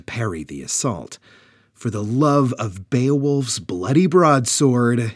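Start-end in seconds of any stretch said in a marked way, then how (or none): 1.7-5.1 a higher, louder battle cry; shouted oath. Acted. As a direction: bellow it as you draw the sword. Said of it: "he shouted".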